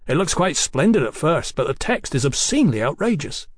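indignant outrage. Acted. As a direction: sound mildly scandalized by it. Mallory outraged at the bill.

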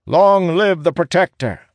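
very high, loud hail; crowd's acclamation. A narrator's reading. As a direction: cry it out as a whole kneeling crowd. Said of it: "declares in one voice".

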